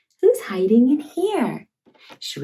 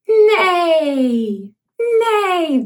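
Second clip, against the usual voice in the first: put-on louder, rising neigh for the child to copy; horse neigh; 5 semitones higher, 3 dB louder than usual. Shown as a demonstration. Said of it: "Can you neigh like a horse?".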